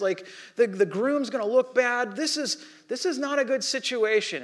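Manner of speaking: urgent worried mother voice; mother voiced. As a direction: plead like an anxious mother whose party is failing. Mother pulls Jesus aside at wedding.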